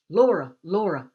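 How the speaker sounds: loud urgent calling; rousing call, urgent and loud; calling to wake her. A narrator's reading. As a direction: shout her awake. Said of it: "Addie was shaking me".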